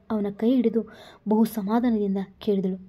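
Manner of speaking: usual speaking voice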